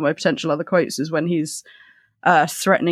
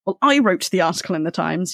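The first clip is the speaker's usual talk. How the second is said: snapped. Acted. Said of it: "he snapped".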